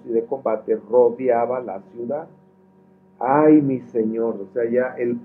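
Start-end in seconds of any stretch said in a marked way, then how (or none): 3.2-4.3 mild lament. Acted. Servant's cry of alarm.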